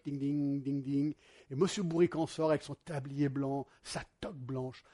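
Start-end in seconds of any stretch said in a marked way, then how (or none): 0.0-1.1 shop bell imitation. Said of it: "la petite cloche".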